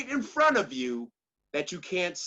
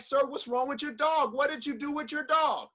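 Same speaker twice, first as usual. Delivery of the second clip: higher-pitched, mildly agitated questioning; worried passerby's raised pitch; anxious passerby; 6 semitones higher than usual. Acted. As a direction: play a bothered passerby questioning a stranger. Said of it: "he's just getting this anxiety inside him".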